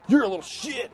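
laughing mock jab; mock insult. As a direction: fling the insult while laughing. Guy insulting brother, retold.

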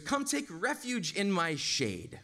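sarcastically grand, slow invitation; sarcastic. Acted. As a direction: offer it with drawn-out sarcasm. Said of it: "and this is, is sarcastic".

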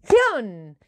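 drawn-out loud yell; shouting. Shown as a demonstration. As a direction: call it out as loud as you can. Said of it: "quiero oírte gritando bien alto". (gritando con fuerza)

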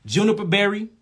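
JUNIPER BERRY said slowly and set apart; measured dictation of "Juniper berry"; said slow for note-taking. Shown as a demonstration. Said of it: "Let me say it slow".

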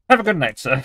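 lightly put-on British accent; brief mock-British accent. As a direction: wish good night with a playful British accent. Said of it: "I did a British accent".

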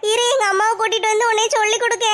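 whimpering fake sobs to win sympathy; hammed-up tearful complaint; fake crying. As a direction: put on a crybaby sob. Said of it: "அழுதுகிட்டே உட்கார்ற மாதிரி அப்படியே நடிச்சுக்கிட்டு".

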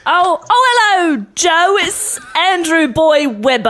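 put-on British accent. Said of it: "I just did my best British accent for you".

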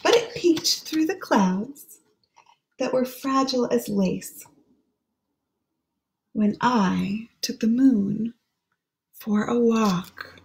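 put-on hushed, lilting read-aloud for children; gentle storybook voice; story reading. Reads the rhyming book aloud.

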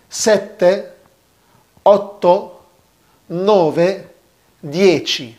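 loud, clear count أونو to دييتشي, each stressed; counting review. Shown as a demonstration. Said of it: "نعيد الأول من الأول كده".

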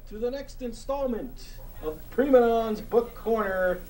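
hosting a book corner segment for the audience, in a hammed-up host voice; hammed-up host intro. Host introducing his book of the month, hammed-up announcer voice.

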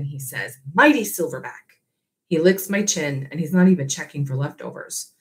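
steady storytelling read to a class; story narration. A narrator's reading. Teacher reading the novel aloud to her class, gentle storytelling. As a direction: read it like a chapter to students.

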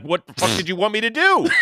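loud, high, laughing comeback; laughing retort. Retold or imitated. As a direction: shout it back through a laugh. Friend's retorted line with laughter.

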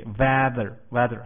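weather with the first syllable stressed. Shown as a demonstration. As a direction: lean on WEA in "weather". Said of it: "重音节在第一个音节".

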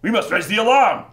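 high, loud aristocratic rallying cry; Thurston the thirty-third. Acted. Aristocrat responding to a kidnapping, loud alarmed proclamation. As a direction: declaim it through clenched teeth. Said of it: "aristocratic mien of talking through his teeth".

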